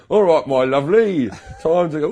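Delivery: light Cockney charmer; cheery London lilt; Cockney accent. Retold or imitated. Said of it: "doing a Cockney accent".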